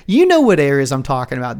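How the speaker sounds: loaded stress on "know"; lightly imitated knowing insinuation; Trump's insinuating stump-speech line. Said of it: "that's the way he says it on his stump speech".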